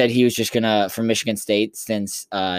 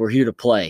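put-on angry, pissed-off tone. Retelling what he said at the press conference: imitating someone pissed off. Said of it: "you can tell he's kinda pissed off".

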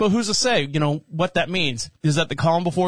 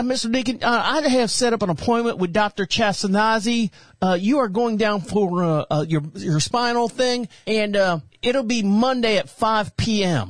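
put-on country girl voice, pitched much higher; 4 semitones higher than usual. Imitating the woman who phoned to set up his appointment, in a black country girl voice. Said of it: "she sounds like a black country girl".

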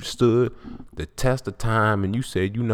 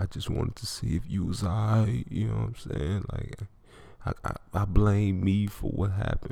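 soft, put-on tearful sobbing voice; 5 dB quieter than usual. Retelling calling a woman at 21, putting on a fake crying voice. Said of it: "I tried to put on this fake ass crying voice".

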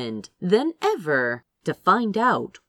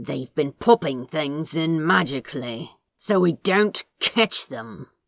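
spoken through gritted, clenched teeth. Reading a story aloud, Crowley's reply to Aziraphale, murmured through gritted teeth. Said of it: "murmured through gritted teeth".

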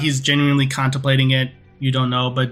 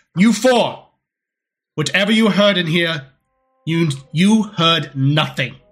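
character shout, higher pitch; 4 semitones higher than usual. A game master voicing a character shouting after the four departing players. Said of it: "Darius stays behind and he shouts".

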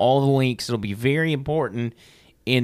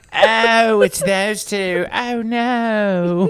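high British accent, stretching the word "no"; 9 semitones higher, 4 dB louder than usual. Mocking how the other person just said a phrase; imitating a British accent. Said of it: "Little British fruit loop".

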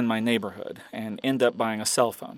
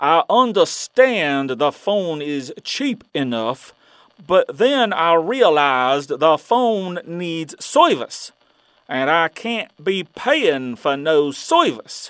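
loud, high, bad put-on Louisiana accent; 5 semitones higher, 5 dB louder than usual. Retelling a dream, returning a phone in a bad Louisiana accent. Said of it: "use a Louisiana accent".

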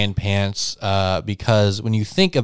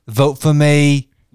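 British accent, pitched a touch higher; 5 semitones higher, 4 dB louder than usual. Imitating Donald Trump telling Joe to sit: Donald Trump with British accent. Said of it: "I'm British Donald Trump".

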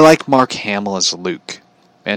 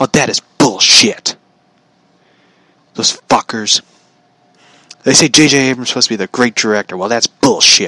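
mock, angry, furious ranting voice; 2 semitones higher than usual. Retelling what their dad said, sitting beside them, imitating dad's angry rant. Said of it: "And he was like mad".

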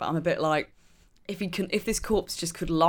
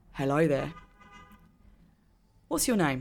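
very calm, controlled; 2 semitones lower than usual. Narrating how a woman buries her emotions and greets someone, very calmly spoken. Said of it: "She's just gonna very calmly say".

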